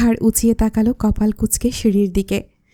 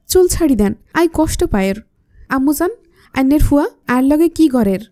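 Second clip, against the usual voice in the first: Chittagonian dialect plea; 4 semitones higher than usual. Acted. Maya begs her mother-in-law in Chittagonian dialect. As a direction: whine it out in Chittagonian. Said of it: "মায়ের মুখেই স্পষ্ট চট্টগ্রামের ভাষা শুনে".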